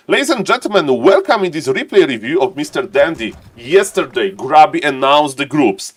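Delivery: announcer opening a replay review; lightly hammed-up esports caster; caster intro. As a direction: address the audience like a tournament host. Opens replay cast like announcer.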